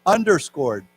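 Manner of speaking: underscored spoken slowly for learners to repeat; teacher demonstrating underscored; underscored said clearly. Shown as a demonstration. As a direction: model underscored for the class. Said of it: "why don't we say together".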